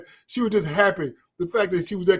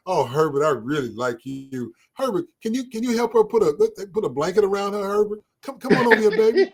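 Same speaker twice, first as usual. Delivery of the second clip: smitten patient; 4 semitones higher than usual. Retold or imitated. Voicing lovestruck patient.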